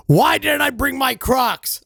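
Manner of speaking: high, drawn-out lament at yourself; mock self-yelling. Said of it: "yelling at myself".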